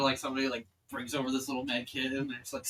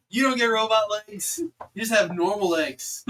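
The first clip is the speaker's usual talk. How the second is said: loud, high and laughing; amused, raised-voice letdown; laughing denial; 7 semitones higher, 7 dB louder than usual. Acted. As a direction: shoot the idea down through laughter. Game master laughing at the joke.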